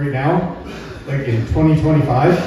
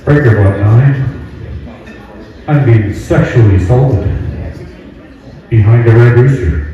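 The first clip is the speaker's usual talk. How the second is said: CB radio call; 5 semitones lower than usual. Acted. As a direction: bark it into the CB mic like a trucker. Mock CB radio distress call.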